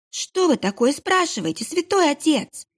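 put-on high, stammering child's voice; babbling scared boy. Frightened kitchen boy babbles to the monk, high. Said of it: "залепетал он".

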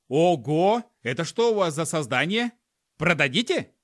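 eager collector voice; delighted. Acted. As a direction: gush over the creature. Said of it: "восхищённо смотрел на Пука".

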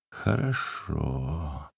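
very soft, slow, eerie resignation; crazed submission. A narrator's reading. Peasant giving in madly before threatening to kill. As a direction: let it go soft and unhinged. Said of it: "с безумной покорностью проговорил мужик".

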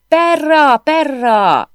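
shrill high squawking bird cry; parrot screech. A narrator's reading. Parrot screeching at the intruder, loud squawk. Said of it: "rikácsolta".

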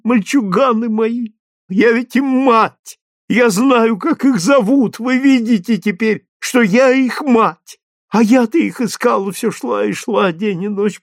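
a mother begging the crowd, her voice climbing in despair; desperate mother. Acted. Mother pleads with the soldiers to save her burning children, frantic.

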